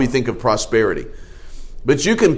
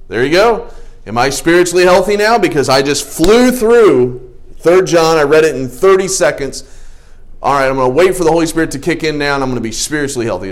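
smug mock boast; 3 semitones higher, 3 dB louder than usual. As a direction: play the smug fool who thinks he's done. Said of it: "and I said".

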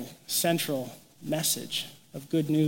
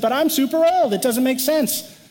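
put-on high, louder protesting old man; mock protest, pitched up and loud; mock whiny old man; 8 semitones higher, 5 dB louder than usual. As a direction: whine it like an indignant old Zechariah. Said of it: "And he said".

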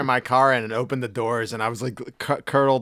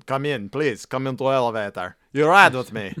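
put-on light Russian man's accent, friendly; a hint of a Russian stranger insisting; mock Russian accent. Russian man in elevator invites them, mock accent. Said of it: "the guy's standing there".

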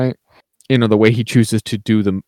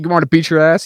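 mildly aggressive imitation, pitched up; mock challenge, lightly acted; retold aggression; 6 semitones higher, faster than usual. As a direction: imitate someone picking a fight, voice raised in pitch. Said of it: "very outwardly, like, aggressive to Philip".

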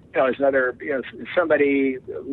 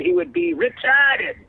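high, slow, wild pitchman squeal; Crazy Max voice; slower than usual. Retold or imitated. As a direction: drop back into the crazy ad guy. Repeats the Crazy Max tagline.

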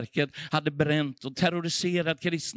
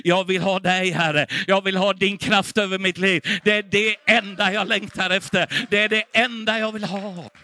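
earnest prayer, a little louder; fervent prayer; 4 dB louder than usual. Real, not acted. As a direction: pour it out as a devoted plea to the Lord. Preacher voices a personal prayer.

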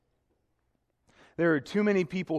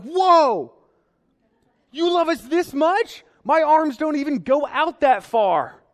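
put-on high, loud, astonished kid voice; hammed-up childlike amazement, pitched way up and loud; amazed child; 13 semitones higher, 9 dB louder than usual. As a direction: play a little kid blown away by the answer.

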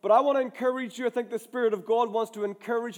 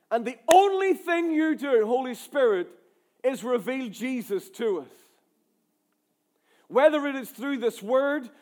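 prayer. Acted.

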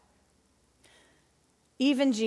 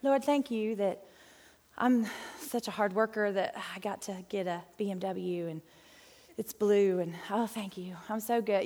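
self-satisfied thanks; 2 semitones lower, 4 dB quieter than usual. Acted. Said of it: "like, so thankful because we're so great".

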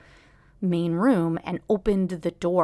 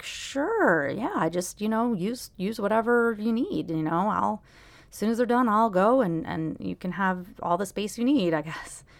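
rattled agreement; 2 semitones higher than usual. Retold or imitated. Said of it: "I was so rattled by it".

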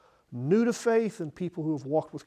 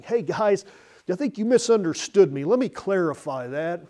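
mock pleading call, higher and louder; calling after them; 6 semitones higher, 8 dB louder than usual. Preacher imagining Jesus chasing the departed disciples, mock pleading call. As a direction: call out to people leaving, anxious to clarify.

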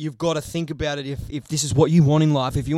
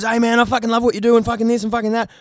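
fast, higher babble of praise; mock fan gushing at speed; 5 semitones higher, 4 dB louder, faster than usual. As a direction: imitate an excited fan rushing words. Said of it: "one person comes up to me and goes".

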